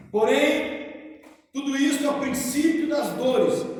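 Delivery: solemn, measured Bible reading; preacher reading scripture, slow and weighty. Acted. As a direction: read the Gospel aloud to the congregation. Reads Gospel passage aloud.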